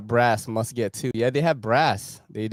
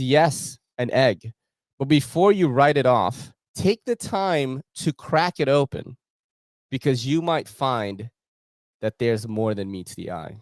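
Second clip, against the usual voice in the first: reading product text; 4 semitones higher than usual. Shown as a demonstration. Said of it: "I'm gonna just read it to you right now".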